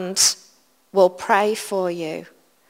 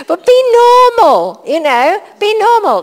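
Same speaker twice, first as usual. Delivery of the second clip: mock spiritual accent; 11 semitones higher, 9 dB louder than usual. Mocking a friend's pious voice to the congregation, much higher and louder. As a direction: send up the holy-sounding preacher voice. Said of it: "starts speaking like this".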